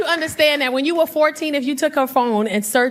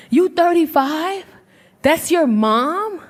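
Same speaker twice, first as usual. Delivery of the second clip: disbelief; 3 semitones higher, much slower than usual. Acted. Acting woman's disbelief on a date.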